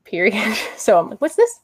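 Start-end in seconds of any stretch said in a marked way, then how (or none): 1.2-1.6 high, bright "what's this"; surprised. Retold or imitated. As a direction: pitch jumps up in surprise. Excited over a comic find.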